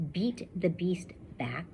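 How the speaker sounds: slow whisper leaning on each B; whispered alliteration. Shown as a demonstration. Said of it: "all starts with B's".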